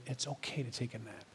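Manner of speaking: hushed, low and very soft; imitated gentle whisper. God whispers permission to rest, very hushed. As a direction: let it fall to a near-whisper. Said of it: "Is God whispering to you".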